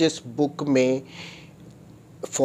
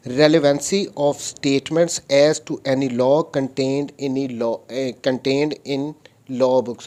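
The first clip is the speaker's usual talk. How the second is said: slow, deliberate reading of the law; reading statute aloud; much slower than usual. Shown as a demonstration. Lecturer reads the article to his students, slow and deliberate. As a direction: read every word out like a legal text.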